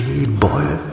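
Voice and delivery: high, puzzled echo of B-Boll; baffled query. Acted. Officer stumped by the caller's strange word, baffled.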